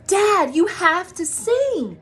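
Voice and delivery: high, loud, slow pleading call; urging shout. A narrator's reading. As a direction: beg dad to join in. Buddy urging dad to sing.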